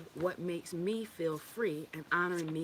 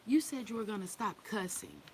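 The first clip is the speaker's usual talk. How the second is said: put-on higher-pitched complaining kid; mock child's reproach, pitched up; imitated children; 5 semitones higher than usual. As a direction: mimic your children scolding their mother. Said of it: "When my children say".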